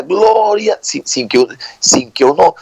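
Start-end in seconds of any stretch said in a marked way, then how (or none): 0.0-0.8 higher-pitched imitation of a worshipper's cry; mock yell. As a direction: mimic a man crying out from the back. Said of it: "allá él grita".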